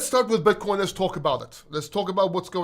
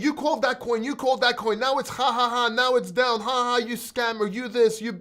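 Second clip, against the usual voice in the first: mocking commenter; 5 semitones higher than usual. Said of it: "And they're saying".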